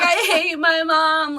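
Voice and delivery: slow, high, drawn-out complaint; put-on tearful sulk, dragged out; mock crying. Dog in booties resenting mom, mock crying. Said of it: "like, crying".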